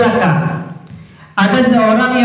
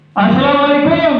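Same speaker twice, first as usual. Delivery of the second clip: greeting pitched much higher, overdone; exaggerated high-pitched opening; too high; 6 semitones higher than usual. Shown as a demonstration. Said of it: "Dan tidak juga ketinggian".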